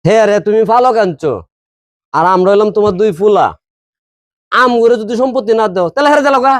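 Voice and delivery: angry protest, pitch climbing at the end. Acted. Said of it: "এত রাগ দিয়ে". (রাগী গলায় প্রতিবাদ)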